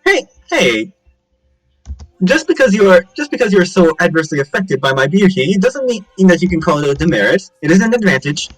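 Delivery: high-pitched, offended self-admiration; vain indignant protest. Acted. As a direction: protest as if your beauty is beyond question. Vain character protests being called demerit.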